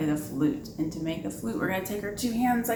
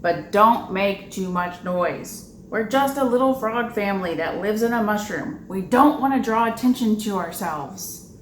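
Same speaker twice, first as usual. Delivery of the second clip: lightly voiced father frog; 4 dB louder than usual. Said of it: "her father said".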